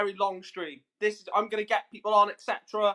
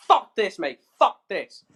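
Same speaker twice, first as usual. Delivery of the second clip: louder, sharp swearing burst; furious outburst; 5 dB louder, slower than usual. Real, not acted. Streamer to viewers about the Super League, furious outburst. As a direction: spit it out, fuming at football. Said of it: "'cause I'm fucking fuming".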